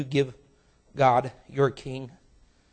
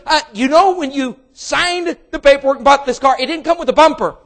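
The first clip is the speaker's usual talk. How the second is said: high, loud, brisk salesman patter; salesman explaining; 9 semitones higher, 11 dB louder than usual. Acted. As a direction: rattle off the bad news. Salesman delivers bad news.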